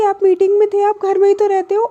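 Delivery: mildly heated, quick retold retort; a touch of acted anger, rapid; angry retort. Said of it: "Alisha को और तेज गुस्सा आ जाती है".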